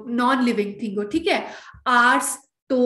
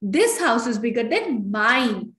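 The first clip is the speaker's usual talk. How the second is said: very slow, careful model sentence; slow, deliberate corrected example; correct version; much slower than usual. Shown as a demonstration. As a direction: spell out the right answer slowly. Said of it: "नहीं".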